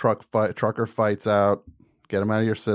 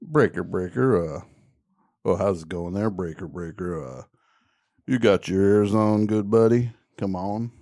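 trucker cb radio; 4 semitones lower than usual. Pretend. Tom does CB radio talk.

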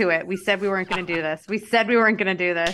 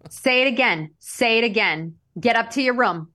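scolding mom; 3 semitones higher than usual. Retold or imitated. Mom ordering kid, acted.

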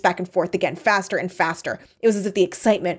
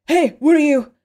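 high loud alarm; alarmed shout; 9 semitones higher, 7 dB louder than usual. Acted. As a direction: shout in fear. Carrie alarmed.

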